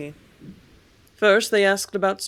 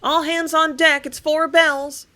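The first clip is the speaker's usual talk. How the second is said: much higher and louder, slow ship's call; 9 semitones higher, 7 dB louder, slower than usual. Acted. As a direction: call the crew like a sailor on deck. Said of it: "ran through the house calling".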